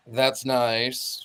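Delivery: low, drawn-out British drollery; Tim Curry. Retold or imitated. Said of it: "Tim Curry comes in".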